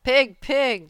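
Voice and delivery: kindly farmer calling his pig. A narrator's reading. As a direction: call a piglet kindly. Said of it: "in a kind voice".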